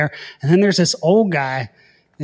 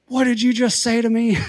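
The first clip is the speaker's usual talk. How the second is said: mock outrage; 8 semitones higher than usual. Angry officer confronting drunk pilot.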